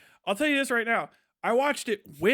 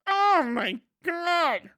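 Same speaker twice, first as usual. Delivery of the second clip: high, drawn-out mock horror; milquetoast outsider; 8 semitones higher, much slower than usual. Civilian shocked by military training, mock aghast wail. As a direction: wail it slowly like an appalled civilian. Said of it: "give these milquetoast city answers".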